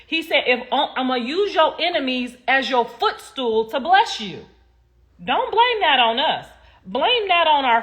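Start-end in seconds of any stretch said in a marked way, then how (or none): 0.5-4.5 mock preacher. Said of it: "watch how I play this".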